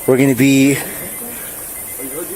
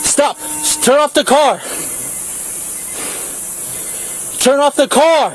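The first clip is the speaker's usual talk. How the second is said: yelling commands at suspect; shouted surrender demands; 12 semitones higher, slower than usual. Real, not acted. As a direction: bark the order at full volume. Officer ordering driver.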